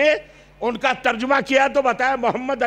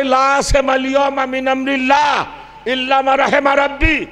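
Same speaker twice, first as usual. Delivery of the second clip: loud, measured Quran recitation; recited verse; 3 dB louder than usual. Acted. Preacher recites the verse to the congregation, intoned loudly. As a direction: intone it as a divine answer.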